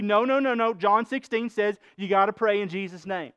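mock emphatic objection; emphatic insistence. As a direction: insist like a dogmatic friend. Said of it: "they would say emphatically".

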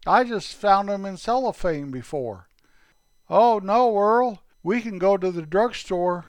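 put-on high, eager boyish voices of two kids. Two boy buddies chatting about toothpicks, high and eager. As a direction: play two excited young friends.

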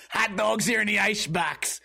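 hammed-up New Jersey cop, amused; New Jersey accent. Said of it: "California cops sound like New Jersey".

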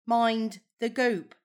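slow "goop" with an oh vowel; imitating goop. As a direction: mimic his "goop". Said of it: "You said goop this time".

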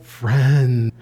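low, kindly Friend; warm friendly friend. Shown as a demonstration. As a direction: say Friend like a real pal. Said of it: "It's not like".

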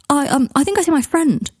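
high, hesitant escape line; awkward excuse. A narrator's reading. Jed backing out after his mistake, awkward and high. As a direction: make a flustered excuse to get away.

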